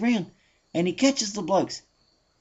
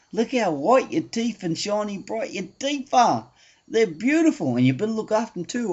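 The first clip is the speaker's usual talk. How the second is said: Aussie bloke; 3 semitones lower than usual. Acted. Aussie bloke sweet-talking the earless man, lightly Aussie. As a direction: ease in as a laid-back Aussie. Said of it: "And he sounds like this".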